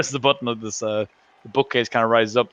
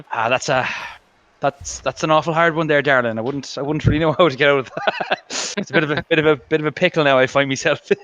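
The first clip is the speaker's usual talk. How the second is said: mock Irish; 2 semitones higher than usual. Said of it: "Being Irish".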